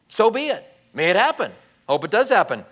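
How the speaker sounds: mildly sarcastic well-wishing; mock agreement, easing down from high. Prophet wishing the rival's prophecy true, mildly sarcastic. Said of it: "does anybody sense a bit of sarcasm".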